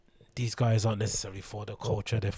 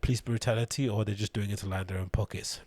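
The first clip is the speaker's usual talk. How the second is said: imitating a condescending store owner, slightly raised pitch; mock condescending; 2 semitones higher than usual. Vlogger mimicking the store owner questioning the rioters' motives, mock condescending. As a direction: put on a lightly patronising questioning voice. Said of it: "he's being condescending by kind of saying".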